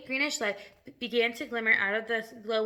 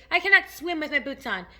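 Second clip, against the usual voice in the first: higher, loud protest; shout; 5 semitones higher, 7 dB louder than usual. A narrator's reading. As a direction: shout out in alarm. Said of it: "shouted the centipede".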